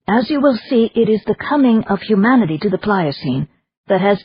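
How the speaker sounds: measured, scheming noblewoman; Madame voice. Acted. Madame continues her plan.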